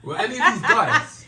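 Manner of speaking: high, loud question through laughter; laughing question. Real, not acted. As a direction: crack up while asking. Joking question, breaks up laughing.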